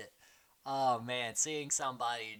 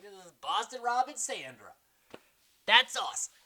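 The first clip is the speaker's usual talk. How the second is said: high, mock-tearful gushing; tearful fan awe; 6 semitones higher than usual. Fan meets Boston Rob and Sandra, mildly tearful awe. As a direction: imitate an overwhelmed fan. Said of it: "like, in tears".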